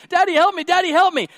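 put-on high, loud panicked child voice; screaming little girl. Girl allergic to bees begs her dad, acted screaming. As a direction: cry out for Dad in mock terror. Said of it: "and she's screaming".

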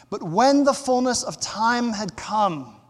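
full-voiced, declarative verse reading; emphatic scripture reading. Real, not acted. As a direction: read the verse out firmly.

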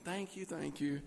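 soft, hushed repeat of thanks; whispering. Retold or imitated. Husband undercutting his wife's polite protest, softly whispered thanks. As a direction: slip it in softly under the breath. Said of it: "And I'm whispering".

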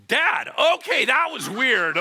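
startled recognition. Retold or imitated. Child recognizes a transformed dad in heaven, startled and loud. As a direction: blurt it out as it dawns on you.

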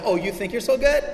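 high, cocky challenge; mock taunt. Preacher as boastful Paul in rap battle, mock taunting. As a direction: throw it out like a rap-battle jab. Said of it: "the O G rap battle".

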